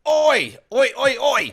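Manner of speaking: hammed-up British "oi, oi" call; a mock London pub shout; bad British accent. Jokingly calling out like a British bloke at the pub. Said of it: "is that the worst U K accent ever".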